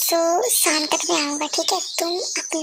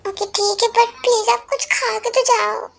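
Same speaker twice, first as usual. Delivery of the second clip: higher, a bit louder coaxing wife; pleading wife; 5 semitones higher, 4 dB louder than usual. Acted. Wife urging husband to eat first, higher pleading. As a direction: coax him to eat before leaving.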